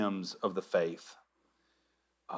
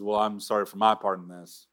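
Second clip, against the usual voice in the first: mock God apologizing back. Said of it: "And God says".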